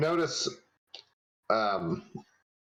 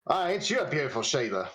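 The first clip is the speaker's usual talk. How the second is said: put-on Australian accent; 3 semitones higher, faster than usual. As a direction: try an Australian accent, fast. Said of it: "try my absolute damnedest to pull this off".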